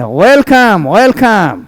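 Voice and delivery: gentle welcome said through a smile; smiling welcome. Shown as a demonstration. Teacher showing how to welcome a guest, smiling. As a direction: greet the guest warmly, smiling. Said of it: "आप मुस्कुरा के कहेंगे".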